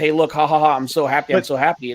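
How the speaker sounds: imitated, mock gloating taunting tone. Imitating someone online gloating about a delay: imitating a gloating taunt. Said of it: "them shoving it in your face".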